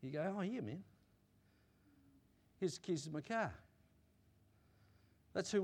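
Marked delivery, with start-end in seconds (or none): 0.4-3.5 soft, casual agreement; easygoing trust. Acted. Friend lending car keys to a trusted friend, easygoing. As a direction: hand it over quietly, no fuss. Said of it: "if there's trust and love in that relationship".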